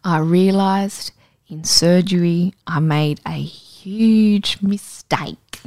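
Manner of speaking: lightly voiced Welsh accent; a hint of a Welsh lilt. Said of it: "in his Welsh accent".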